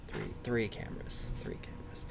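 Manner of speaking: "Three cameras" fading into a whisper. Shown as a demonstration.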